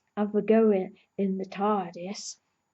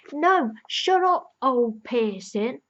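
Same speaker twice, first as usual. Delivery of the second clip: mock telling-off; 3 semitones higher, 4 dB louder, slower than usual. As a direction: dismiss the old lady slowly. Telling off the old lady.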